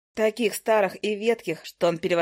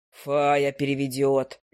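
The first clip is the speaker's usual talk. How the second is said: low, slow, irritated hiss of an owl; snapping low without looking up; 6 semitones lower, much slower than usual. A narrator's reading. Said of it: "зашипел на меня сова".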